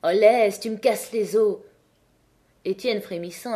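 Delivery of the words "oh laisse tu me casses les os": a mild pained protest, louder start; girl pushing him away with a mild pained cry; complaining. Acted. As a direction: plead with him to stop, hurt. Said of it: "elle se plaignit".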